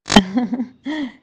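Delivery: short chuckle breaking into the story; amused laugh. Real, not acted. Teller amused by the lost-phone question, short laugh. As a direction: laugh briefly at the coincidence.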